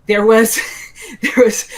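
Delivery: high, loud quote broken by a laugh; quoting John, laughing so hard the words catch; laughing through a quote. Retold or imitated. Telling the podcast host about John, breaking into laughter.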